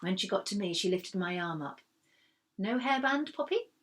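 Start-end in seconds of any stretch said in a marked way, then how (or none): 2.6-3.7 stern teacher. A narrator's reading. Teacher questions Poppy.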